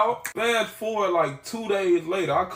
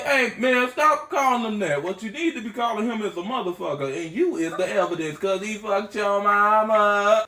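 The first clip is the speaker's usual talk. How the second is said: mock indignant taunt; 3 semitones higher than usual. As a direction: heckle him, stretching out the punchline. Acted heckling of the angry caller.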